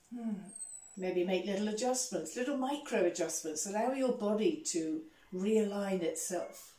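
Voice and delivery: calm yoga teacher's guidance, unhurried pauses; guided meditation. Real, not acted. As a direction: ease them into noticing the body. Guides settling into the body.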